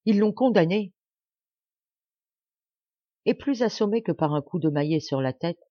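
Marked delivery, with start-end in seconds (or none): 0.0-0.9 higher, louder exclamation; shocked outcry. A narrator's reading. Wife learning her husband is condemned, shocked outcry. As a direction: cry out at terrible news.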